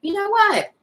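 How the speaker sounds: lightly voiced joyful giggle; laughing meditation demo. Shown as a demonstration. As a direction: show the joyful child feeling. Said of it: "looks something like this".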